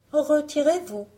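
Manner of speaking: high, loud dismissal; lifted girlish fairy-tale voice; refusing young heroine. Acted. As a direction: send the visitor off from the window. Blanche renvoie la paysanne.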